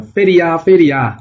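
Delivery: the spirit keeps crying out loud to the crowd; keeps shouting. Acted. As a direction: keep yelling so everyone hears. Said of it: "继续喊着".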